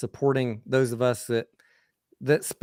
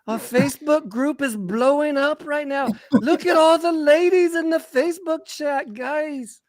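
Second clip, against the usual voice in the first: put-on high, hammy Canadian accent; a weak attempt at a Canadian accent; 11 semitones higher, 3 dB louder than usual. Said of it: "that was my weak attempt at a, a Canadian accent".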